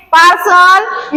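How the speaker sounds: पार्सल drawn out slowly, rising at the end; slow model word. Shown as a demonstration. Teacher reading the word list aloud, slow पार्सल. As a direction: read पार्सल slowly for the class. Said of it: "पढ़ के बताएं आप लोग को".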